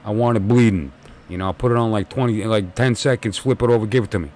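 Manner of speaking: imitating a thick New York accent, gruff and sure; father ordering his bleeding burger in a New York accent; dad's thick New York accent. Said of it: "he had a thick accent".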